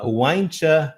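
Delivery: "Why don't you" fused into "why-ncha"; connected speech. Shown as a demonstration. Teacher repeating how natives really say it, blended. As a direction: drop the d and t of "don't", ending in "cha". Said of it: "a probabilidade da pessoa falar".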